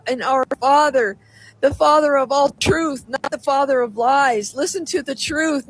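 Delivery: impassioned plea to wake up; fervent preaching. Acted. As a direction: rouse the flock with rising urgency. Relays the Lord's warning message.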